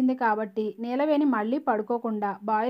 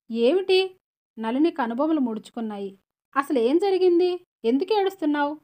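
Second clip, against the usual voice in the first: shocked asking; 3 semitones higher than usual. Acted. Sister stunned by Gauri's crying, sharp high questions. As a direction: demand answers in shock.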